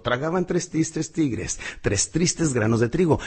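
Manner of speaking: "Tragaban tres tristes tigres" said slowly, every syllable crisp; over-articulate each t and r slowly; slow clear tongue twister. Shown as a demonstration. Coach demonstrating the twister clearly, slow and crisp. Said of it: "Hay uno muy bueno que dice".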